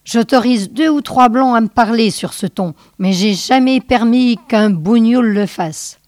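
controlled, simmering anger; contained rage. Acted. Pimp confronts the sage, contained rage. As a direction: hold the anger in while threatening. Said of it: "ivre de rage contenue".

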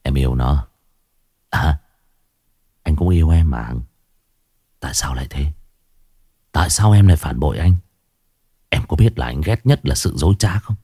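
husband confronting his unfaithful wife, bitter. A narrator's reading. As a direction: ask why she betrayed him, coldly hurt.

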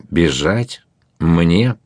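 ordinary delivery, nothing marked

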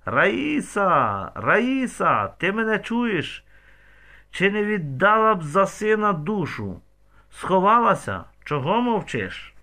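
high, loud calling out a name; mother loudly calling out Raisa; bellowing. A narrator's reading. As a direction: call her out across the yard. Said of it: "як загорланить".

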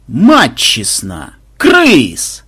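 recognize him with delight; joyful surprise. Acted. Innkeeper recognizes old friend. (радостное удивление)

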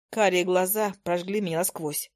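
ordinary delivery, nothing marked

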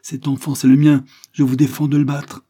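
high, loud enraged declaration; mother's outraged command; furious. A narrator's reading. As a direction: defend her child with fury. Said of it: "la rage qu'elle éprouvait".

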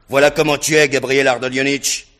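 contemptuous taunt. Acted. Rogojine taunting Gania.

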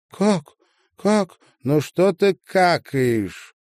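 loud, high angry retort. Acted. Marina turning angrily on Sasha, loud and high. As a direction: snap back at her, loud and cutting. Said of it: "Зло обернулась к ней Марина".

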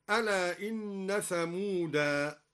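"ثمودا" stopped on a long alif, "ثمودَا"; pause on alif. Shown as a demonstration. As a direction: stop on "ثمودا" with a lengthened final a. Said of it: "هكذا".

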